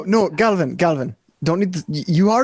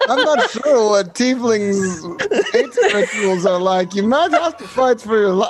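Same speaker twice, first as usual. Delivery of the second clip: slipping into a mock Kazakh accent; Borat. Warning Galvin about tiefling rituals, in a sliding Borat-style accent. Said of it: "I'm turning into Borat".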